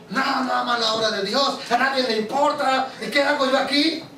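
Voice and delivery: mild resentful grumble; a hint of bitter anger at the congregation; angry complaint. Preacher retells his angry complaint against his church, mildly resentful. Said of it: "Enojo. Me enojé con todos ellos".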